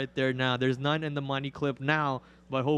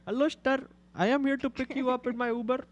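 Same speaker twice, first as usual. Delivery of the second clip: a lightly put-on taxi driver greeting, pitched up; 6 semitones higher than usual. Streamer greeting a pretend rider as his taxi driver, lightly put-on voice. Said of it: "taxi voice is impressive".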